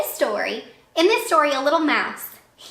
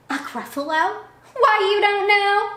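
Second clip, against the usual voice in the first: high, loud put-on mouse voice; squeaky little mouse, mock astonished; mock-amazed mouse; 10 semitones higher, 4 dB louder than usual. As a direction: act shocked the fox doesn't know. Mouse feigns shock.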